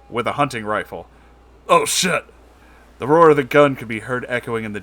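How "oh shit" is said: alarmed cry. Acted. Sees rifle.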